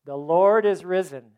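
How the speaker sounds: "The Lord is risen" called out loud; loud proclamation. Acted. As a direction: shout "The Lord is risen" to the whole room, stress on "Lord".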